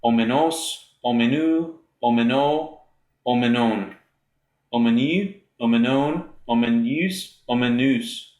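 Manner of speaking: each form spoken on its own, carefully, Omenos, omenu, omeno with a small rise; reciting Greek endings. Shown as a demonstration. Teacher reciting the masculine endings to students, careful and measured. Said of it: "it's omen".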